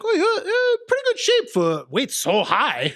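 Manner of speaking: high, mocking thick Asian accent. Podcaster quoting his doctor on his weight, high thick Asian accent. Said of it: "I'm gonna do the accent".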